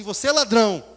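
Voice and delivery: loud, blunt mock accusation. Worker accusing the man of robbing God, loud. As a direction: bark it at him as a charge.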